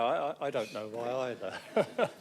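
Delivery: slow words through a real laugh; chuckling at the memory of being teased. Real, not acted. Councillor laughing while recalling a colleague's teasing. Laughing about mickey-taking over accent.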